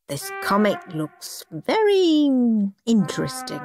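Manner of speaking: hunt for something kind to say; polite doubt. Acted. Grandpa politely hides his doubt.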